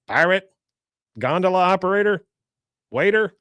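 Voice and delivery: high rising guesses, one after another; puzzled guessing. Retold or imitated. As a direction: toss out each guess as a question. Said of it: "trying to guess what he is".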